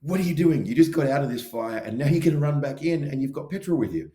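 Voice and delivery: loud, high-pitched acted alarm; screaming logical brain. Logical brain scolding the speaker for running back into fire, screaming. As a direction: yell it in exasperated disbelief. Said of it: "my logical brain is screaming, going".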